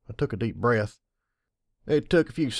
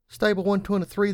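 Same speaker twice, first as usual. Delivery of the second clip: higher mechanical door announcement; 10 semitones higher than usual. A narrator's reading. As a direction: speak it like an automated door. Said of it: "the door said".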